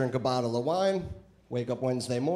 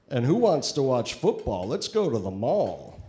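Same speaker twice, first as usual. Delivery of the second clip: doll voice; 6 dB louder than usual. Pretend. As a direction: press the button, doll speaks. Doll voice saying husband lines.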